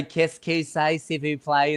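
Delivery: put-on French said in a broad Australian accent. Mocking how Australians speak French, broad Australian accent. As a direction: mangle the French like an Aussie tourist. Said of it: "in the Australian accent".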